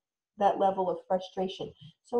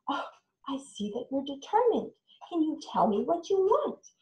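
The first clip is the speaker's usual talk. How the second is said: noticing determination; 5 semitones higher than usual. Shown as a demonstration. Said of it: "you can identify".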